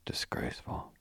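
disgusted, whispered and low; indignant whisper. A narrator's reading. Lady on the tour, whispering her outrage. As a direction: breathe it out in shocked disapproval.

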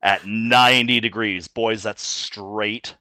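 sultry voice. Acted. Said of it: "In your sultriest voice".

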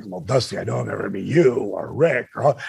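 retreat into a small embarrassed voice; sheepish repeat. Retold or imitated. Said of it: "Now I feel kind of stupid".

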